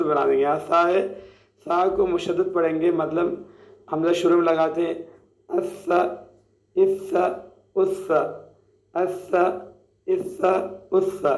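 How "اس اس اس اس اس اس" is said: اس with a soft, lisped ث and no whistle; drilled soft tha. Shown as a demonstration. Teacher drilling the sakin tha for students. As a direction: repeat اس, tongue tip on the teeth. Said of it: "حمزہ کے بجائے کسی اور حرف کو لگاتے ہیں".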